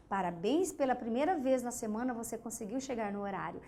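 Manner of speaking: quiet restatement. Shown as a demonstration. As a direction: say it again down low as a gentle scolding. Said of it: "é uma puxadinha de orelha".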